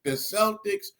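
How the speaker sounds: mock scolding. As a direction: playfully threaten to disown him. Voices relative scolding him.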